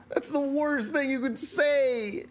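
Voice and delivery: playfully aggrieved; mock outrage. Real, not acted. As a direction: overplay the hurt feelings. Complaining about wife's comment.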